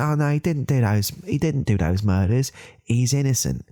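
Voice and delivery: high-pitched mock denial; beta's protest. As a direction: protest his innocence like a beta, high. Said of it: "like, like a beta".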